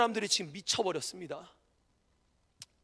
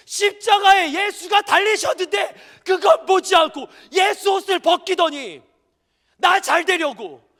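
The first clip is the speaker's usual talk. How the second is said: loud fervent sermon delivery; full-force preaching; 7 semitones higher, 10 dB louder than usual. Acted. Pastor preaching hard to the congregation, loud and fervent. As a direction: drive each phrase home.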